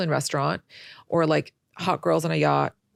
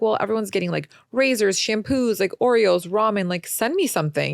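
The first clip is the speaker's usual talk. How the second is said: louder, higher, eager listing; excited pleading; 5 semitones higher, 4 dB louder than usual. Retold or imitated. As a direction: rattle off the list eagerly. Retold pleading to mom.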